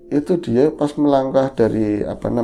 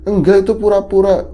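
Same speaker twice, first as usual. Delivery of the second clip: high, loud denial; voicing the grandma; 8 semitones higher, 6 dB louder than usual. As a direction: cut off the idea firmly. Grandma denies in story. (nenek menyangkal dengan tinggi dan keras)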